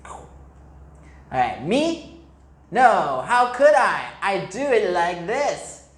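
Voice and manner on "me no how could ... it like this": high, louder innocent denial; a cow protesting innocence; cow's reply. Acted. Cow answering the mole, lightly voiced protest. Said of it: "cow's reply".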